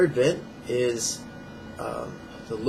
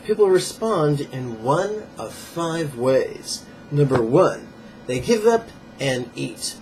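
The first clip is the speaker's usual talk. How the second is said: emphatic, slightly raised read-aloud voice; book reading aloud; 3 dB louder than usual. Acted. Fitness teacher reading viewers a page from a diet book, emphatic read-aloud. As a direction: read the page out with firm emphasis on key words.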